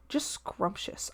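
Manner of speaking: slow, soft, breathy savoring; relishing whisper. Real, not acted. Streamer savoring taser sounds, slow whisper. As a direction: whisper it like tasting something delicious. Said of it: "such a satisfying sound".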